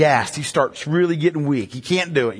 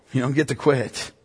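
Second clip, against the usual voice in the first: quiet restatement; 5 dB quieter than usual. Real, not acted. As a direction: restate it calmly after the climax. Quiet repeat after militant climax.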